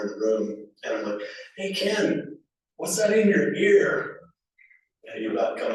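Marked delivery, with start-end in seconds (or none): 1.6-4.2 sibling tattling in a high voice; teasing call-out. Retold or imitated. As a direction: sing it out to get him in trouble. Teasing brother in front of parents.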